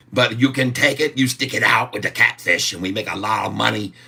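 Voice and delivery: a hammed-up broken-English Chinese accent; mock Chinese accent. Streamer shows viewers his mock Chinese accent. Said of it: "I can speak a Chinese".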